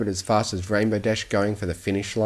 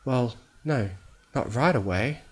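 higher, small hesitant voice; timid character voice, pitched up; hesitant admission; 3 semitones higher than usual. A narrator's reading. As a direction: admit it haltingly. Fluttershy hesitantly admits the truth.

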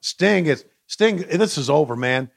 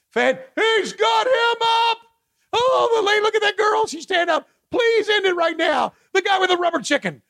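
high shouted play-by-play; frantic mock sports commentary. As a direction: call it like a manic announcer.

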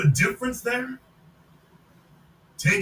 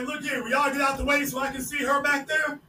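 mock suitor; 3 semitones higher than usual. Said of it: "Old boy's like".

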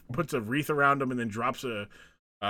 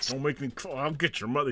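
through his teeth; 2 semitones lower, 6 dB quieter than usual. Retold or imitated. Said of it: "He started talking through his teeth".

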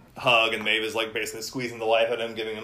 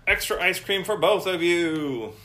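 lightly higher grateful mom; grateful mother; 6 semitones higher than usual. Acted. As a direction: thank them like a relieved mom. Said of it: "she comes over".

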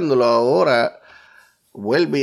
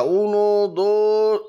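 pin count call; 6 semitones higher, much slower than usual. Real, not acted.

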